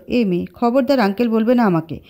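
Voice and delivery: mild flustered threat; embarrassed man threatens the girl; flustered scolding. Acted. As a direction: scold her, a bit thrown. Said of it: "থতমত খেয়ে ধমক দিয়ে বলল".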